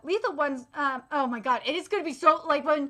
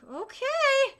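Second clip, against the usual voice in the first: retold deflated okay; 10 semitones higher than usual. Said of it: "And I was like".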